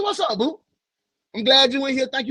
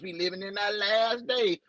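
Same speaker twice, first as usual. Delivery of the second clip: lightly voiced granny, a touch softer; a hint of an old grandma warning; 3 semitones higher, 6 dB quieter than usual. Joking with viewers, imitating his granny with mild gloom. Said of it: "In my granny voice".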